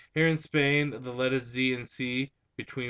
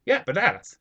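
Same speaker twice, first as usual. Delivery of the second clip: "bananas" higher and louder, with open "ah"; Hispanic accent; 8 semitones higher, 5 dB louder than usual. Retold or imitated. Insisting to fiancée on own version, Hispanic accent. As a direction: insist on "bananas" as ba-NAH-nas, Hispanic-style. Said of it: "I'm like".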